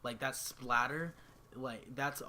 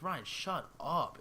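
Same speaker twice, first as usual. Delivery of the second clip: higher, drawn-out mock scolding; retold exasperation; 4 semitones higher, much slower than usual. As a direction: shut a little brother up, dragging the words. Retold snapping at little brother.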